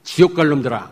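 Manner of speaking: high, mock angry scolding; preacher mimics a leader scolding over tithes, hammed-up anger. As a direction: berate them like a cult leader. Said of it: "막 이래요".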